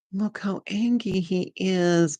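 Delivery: put-on cute baby talk. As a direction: coo it slowly, like talking to a pouting pet. Cooing over angry squirrel card.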